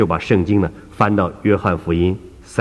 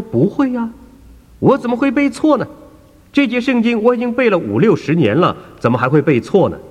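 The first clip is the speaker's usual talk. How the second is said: put-on much higher, indignant elderly believer; a raised, disbelieving old lady; protesting old woman; 14 semitones higher than usual. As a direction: insist you could never get it wrong.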